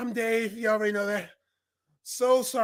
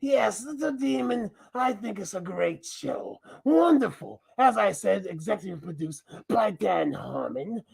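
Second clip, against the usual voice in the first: lightly voiced masked alter ego, playful; a mischievous mask character hijacking the channel; Mascot persona voice. Masked Mascot taking over the host's channel, mischievous. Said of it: "I'm not Dave. I'm Mascot".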